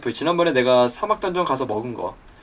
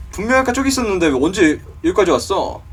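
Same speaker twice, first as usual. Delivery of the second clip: usual speaking voice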